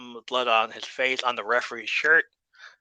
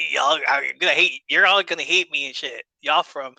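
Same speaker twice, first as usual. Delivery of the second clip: southern drawl. Retold or imitated. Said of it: "put in that southern drawl some more".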